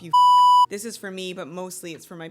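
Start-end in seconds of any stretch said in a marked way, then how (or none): 0.0-0.7 a loud clipped shout of the curse; cut-off curse. Retold or imitated. Kingfisher threatening Malcolm, loud cut-off curse. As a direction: yell the curse and cut it short. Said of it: "goes full Shadow Daddy mode".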